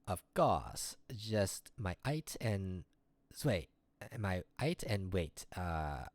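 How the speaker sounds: put-on French accent, playful. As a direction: lay on a shaky French accent. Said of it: "'cause my accent is low-key so horrible".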